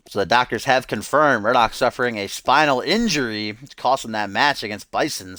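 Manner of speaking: emphatic, loud commentary report; wrestling announcer. Acted. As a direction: break the injury news like a ringside commentator.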